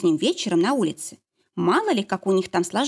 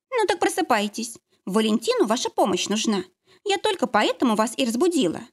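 curt command; 4 semitones higher than usual. Acted. Lara curtly orders Nastya.

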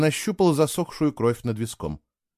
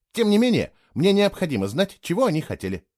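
higher, earnest insistence; sudden seriousness; 7 semitones higher than usual. A narrator's reading. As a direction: press the point in all seriousness. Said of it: "внезапной серьёзности в его голосе". (серьёзно, настойчиво)

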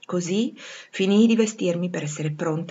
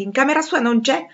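raised, high-pitched alarmed report; shouting colonel; 8 semitones higher, 6 dB louder than usual. A narrator's reading. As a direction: call it out to the whole gallery. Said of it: "gridò il colonnello Denti". (annuncio gridato con allarme)

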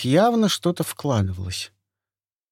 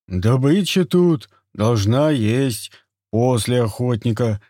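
gruff hunter voice; 5 dB louder, slower than usual. Acted. Turgam voiced by narrator.

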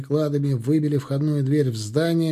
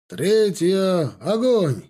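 high, drawn-out military command; barked firing command; 5 semitones higher, much slower than usual. A narrator's reading. Captain ordering a volley, barked command. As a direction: call the volley to the whole rank. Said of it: "рявкнул капитан Бегов".

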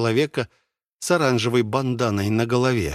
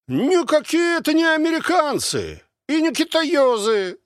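put-on much higher, brash old soldier voice; a cocky veteran calling over the wall; soldier behind the wall; 3 dB louder than usual. Unseen man behind the wall butting into the argument, brash.

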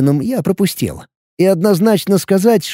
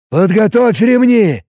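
slow, higher stern order, no objections; commanding; 5 semitones higher, 3 dB louder, slower than usual. A narrator's reading. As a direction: bark it like an old sergeant. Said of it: "голосом, нетерпящим возражений".

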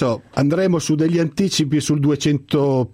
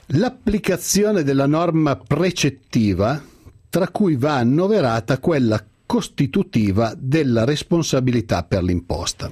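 theatrical swelling poetry reading; 2 semitones higher than usual. Acted. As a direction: recite it like a school Christmas poem. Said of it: "mi sono preparato due o tre brani da declamare".

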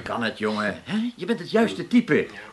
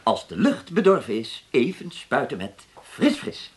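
line demo; 4 semitones lower than usual. Acted.

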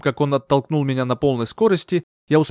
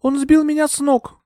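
put-on high young woman's voice, faltering; a dazed young lady explaining; young heroine; 4 dB louder than usual. A narrator's reading. Euphemia explains herself to Bertram, high and faltering. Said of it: "вздохнула я".

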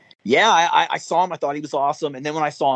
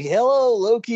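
high, eager fanboy hello; mock-eager fanboy hello; excited fan greeting; 9 semitones higher than usual. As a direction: greet your hero a little starstruck. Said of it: "I was like".

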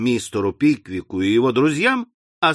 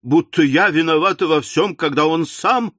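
wailing. Acted. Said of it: "возопила миссис Напкинс".

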